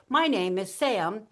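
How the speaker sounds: drawn-out SAM lifted up, left hanging before a pause; pause and punch. Shown as a demonstration. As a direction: stretch SAM upward, then wait. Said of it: "say your name with a pause and a punch".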